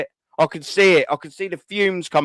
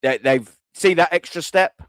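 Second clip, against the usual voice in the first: mock City player; 4 semitones lower than usual. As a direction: imitate a smug rival player. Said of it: "A win goes".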